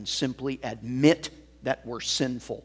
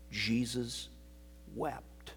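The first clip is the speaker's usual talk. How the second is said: single word breathed soft; hushed reverent whisper; 8 dB quieter, slower than usual. Acted. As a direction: let it fall to a whisper. Reverent hush on key verse.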